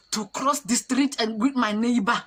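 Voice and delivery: loud disbelief. Retold or imitated. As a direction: punch out each word in disbelief. Outraged at the fine, loud.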